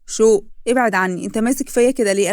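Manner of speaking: loud startled protest; startled outburst. Acted. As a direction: push him off with a loud cry. Shouq shoves Lais away. (صرخة مفزوعة عالية)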